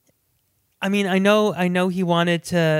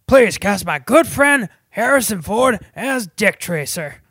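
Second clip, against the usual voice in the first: put-on pleading voice; 4 semitones higher, 7 dB louder than usual. Mock request in a put-on voice.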